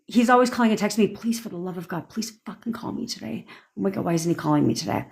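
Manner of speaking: fast, then dropped to a soft desperate plea; anxious, clingy mock plea; mock needy pleading. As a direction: beg quietly for the call. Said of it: "not like".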